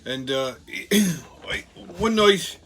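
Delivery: storytelling in a mock Irish brogue; playful stage-Irish brogue; put-on Irish accent. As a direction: spin a pub yarn with an Irish accent. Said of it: "with me Irish accent".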